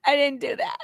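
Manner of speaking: mock-weepy protest dying away; hammed-up crying, winding down; her signature crying. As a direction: let the pretend wail subside into a small tearful denial. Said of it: "She does her signature crying".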